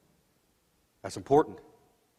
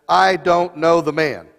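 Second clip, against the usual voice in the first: swearing an oath; 3 semitones higher, 11 dB louder than usual. Acted. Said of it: "with an oath".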